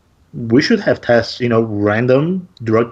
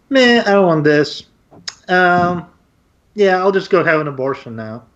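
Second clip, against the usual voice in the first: higher-pitched mock woman's voice; attempted female voice; 5 semitones higher than usual. Imagined woman casually deciding on an abortion, in a put-on female voice. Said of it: "that was my female's voice".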